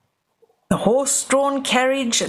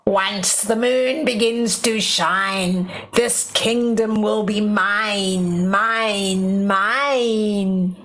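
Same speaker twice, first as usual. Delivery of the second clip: lightly voiced gleeful witch; gloating witch; 2 semitones lower, much slower than usual. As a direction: relish every mine. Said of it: "The witch cackled happily".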